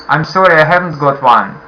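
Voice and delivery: apologetic, gentle refusal; polite refusal. Shown as a demonstration. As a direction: say it politely, kindly. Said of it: "Or you can say".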